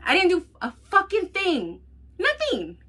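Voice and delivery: loud, high and near tears; tearful angry defense; heated retold outburst. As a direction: relive the blow-up, voice cracking.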